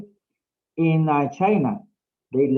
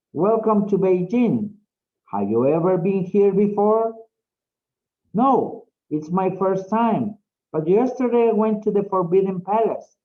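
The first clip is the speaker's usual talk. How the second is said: model intonation reading. Shown as a demonstration. Teacher shows the class rhythm and intonation, modelled dialogue reading. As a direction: read the dialogue with clear, deliberate intonation. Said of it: "The way I pronounce the words".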